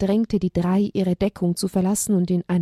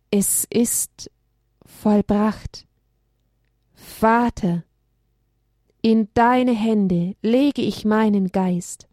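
dying Jesus; much slower than usual. Acted.

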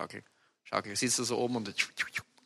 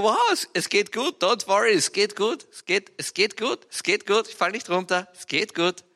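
grinning reassurance; 2 semitones higher than usual. Retold or imitated. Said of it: "ich grinse von einem Mundwinkel zum anderen".

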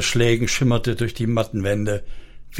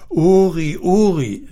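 höhere, eindringlich beschwichtigende Frauenrolle; besänftigend; 6 semitones higher, slower than usual. A narrator's reading. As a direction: den Namen zweimal beschwörend rufen. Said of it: "suchte sie ihn zu besänftigen". (besänftigend)

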